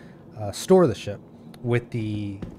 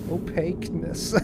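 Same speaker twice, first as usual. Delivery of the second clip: surfer voice; 7 semitones higher than usual. Retold or imitated. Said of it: "Gotta get that surfer voice going".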